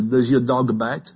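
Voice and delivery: lightly put-on French accent, slow. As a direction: ask it slowly with a hint of French. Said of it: "his French accent".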